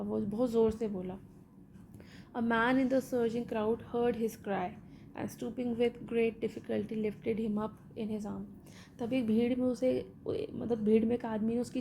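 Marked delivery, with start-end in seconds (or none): 2.4-8.4 slow, measured read-aloud of a story; deliberate textbook narration. Acted. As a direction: read each phrase out slowly for the class. Reads English story text aloud.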